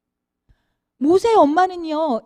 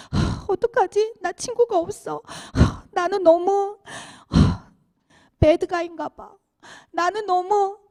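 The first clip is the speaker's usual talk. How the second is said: put-on gloomy child; 3 semitones higher than usual. Child with no friends sinking into gloom, mildly moping. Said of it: "계속 다운되는 거예요".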